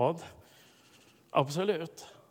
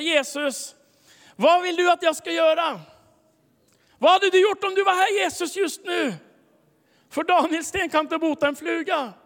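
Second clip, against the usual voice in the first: high, loud crying out to Jesus; pleading upward, voice lifted and urgent; desperate plea; 11 semitones higher, 8 dB louder than usual. Retold or imitated. Preacher reliving his loud desperate prayer.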